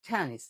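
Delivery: "টেনিস" with a puffed T; aspirated T demo. Shown as a demonstration. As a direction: model "টেনিস" like ঠেনিস. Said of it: "আমার সাথে সাথে বলার চেষ্টা করো". ("টেনিস"-এর ট মহাপ্রাণ)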